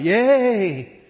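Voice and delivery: drawn-out cheer, swooping up and down; excited yell. Shown as a demonstration. Preacher showing how kids cheered, excited yell. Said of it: "yay was something you yelled".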